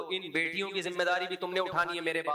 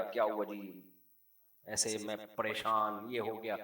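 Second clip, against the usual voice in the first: mock worried complaint; 7 semitones lower, 6 dB quieter, slower than usual. Imitating the worried husband.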